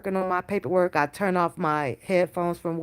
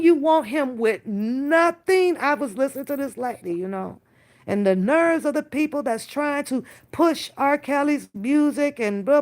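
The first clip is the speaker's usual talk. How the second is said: usual speaking voice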